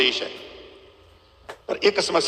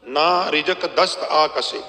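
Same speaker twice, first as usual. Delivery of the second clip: slow scripture recital; 3 semitones lower, much slower than usual. Acted. Preacher opening his talk with a verse, slow recital. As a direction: draw the line out slowly and reverently. Opens katha with scripture line.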